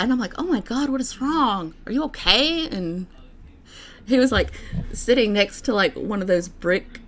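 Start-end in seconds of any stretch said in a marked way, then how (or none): 0.4-2.7 high-pitched, acted-out concern; retold alarm. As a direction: replay your worried check on a stranger. Acting out alarm at injured stranger.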